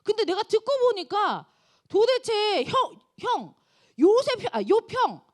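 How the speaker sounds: loud, rising indignant rebuke from a younger man; angry scolding. Retold or imitated. Young Elihu scolding Job, loud angry outburst. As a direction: blow up at an older friend in protest. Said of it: "욥에게 막 화를 내요".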